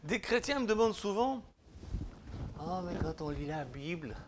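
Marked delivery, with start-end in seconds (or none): 2.6-4.1 put-on Swiss accent. Imitating a Christian's question in a mock Swiss accent. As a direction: put on a light Swiss French lilt. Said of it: "je prends mon accent suisse".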